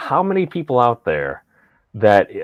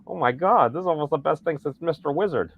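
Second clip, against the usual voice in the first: higher, wide-eyed excited quote; gushing, in playful wonder; mock awe; 5 semitones higher than usual. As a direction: imitate a delighted young viewer. Childlike awe at British host.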